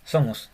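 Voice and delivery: somos with a buzzing z for the s; English z sound. Shown as a demonstration. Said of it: "se pronuncia como una S en inglés".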